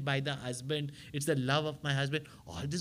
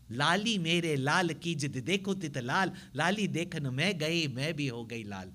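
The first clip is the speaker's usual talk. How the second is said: reciting a doha. Shown as a demonstration. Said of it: "Have you seen such alliterations".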